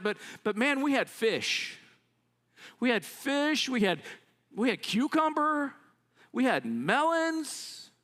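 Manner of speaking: dreamily listing the feast they miss; longing nostalgia. Acted. Israelites fondly recall Egypt's food.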